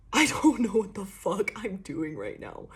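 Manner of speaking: touch of flustered panic; mock panic. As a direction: play someone starting to panic. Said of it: "like, panic".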